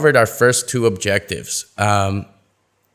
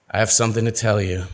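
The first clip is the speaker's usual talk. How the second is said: a worried confession; mildly sad; faster than usual. Shown as a demonstration. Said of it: "sad or worried".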